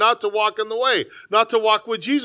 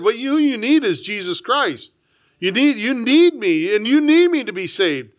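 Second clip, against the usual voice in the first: voice of God. Retold or imitated. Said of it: "he shook me ... and said".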